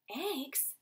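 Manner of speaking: incredulous rising question; disbelieving question. Acted. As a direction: echo it in disbelief. Father echoes in disbelief.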